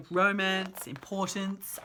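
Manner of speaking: ordinary delivery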